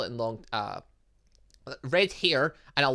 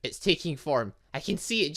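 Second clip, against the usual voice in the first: ordinary talk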